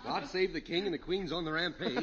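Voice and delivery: hammed-up British accent; pompous Englishman on holiday. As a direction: comedic mock British accent. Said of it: "Where did you get this British accent?".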